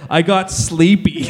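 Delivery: slow, lightly childish mocking voice. Teasing a grown-up for his wording, mock childish. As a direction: stretch it out like a little kid, lightly. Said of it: "Is a, a grown-up says".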